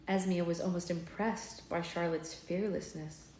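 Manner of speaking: measured, expressive storybook reading; story narration. A narrator's reading. Reading a fairy-tale villain scene to listeners, expressive narration. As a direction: read it like an audiobook, voicing each character.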